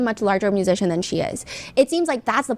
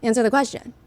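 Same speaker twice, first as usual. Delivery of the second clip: authoritative demand; 2 semitones higher than usual. Retold or imitated. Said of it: "very authoritative".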